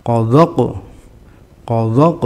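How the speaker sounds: "Qadaq" with heavy, thick q and a bounced ending. Shown as a demonstration. Teacher shows the thick letter, heavy bounced "Qadaq". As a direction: say "Qadaq" thick, echoing the last q.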